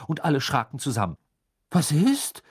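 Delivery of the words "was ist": raised, too-innocent question; feigned innocence. A narrator's reading. George caught out by his mother, high and falsely innocent. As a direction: play innocent and fool nobody. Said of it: "in einem Unschuldston, der keinen täuschte".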